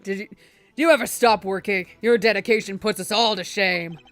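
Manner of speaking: lightly voiced avuncular old man; jovial chairman. Chairman praises a hard-working colleague, jovial. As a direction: greet her with fond praise.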